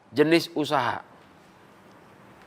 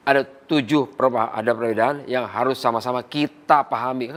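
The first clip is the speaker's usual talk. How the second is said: inclusive, embracing; 2 semitones lower than usual. Shown as a demonstration. Trainer shows how to draw partners in, inclusive. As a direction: invite them in, leaning on KITA. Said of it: "Kan rangkul itu namanya".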